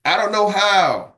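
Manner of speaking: an employee whining that he's stuck; drawn-out helpless whine. Retold or imitated. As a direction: stretch it out like a helpless excuse. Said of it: "but the big one".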